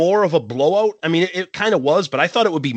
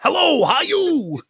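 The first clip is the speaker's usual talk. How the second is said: high, slow hello how you; singer impression; 13 semitones higher, slower than usual. Mimicking a singer greeting the crowd, high and slow. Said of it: "it's like".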